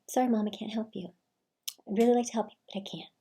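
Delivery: sorry but firm, gently; nice refusal. Shown as a demonstration. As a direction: turn her down gently. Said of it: "be real nice about it".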